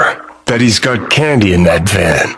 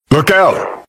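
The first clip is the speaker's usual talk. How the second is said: urgent warning; 7 semitones higher than usual. Acted. Sudden warning to partner.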